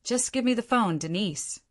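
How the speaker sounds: angry, off-phone and muffled; muffled angry voice away from the phone. Acted. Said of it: "My dad's angry, muffled voice".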